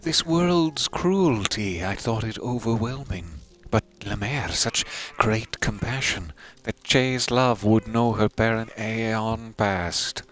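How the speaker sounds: a hint of an old widow, moved and slow; lightly voiced grieving mourner. Reads the Grey Mourner's dialogue.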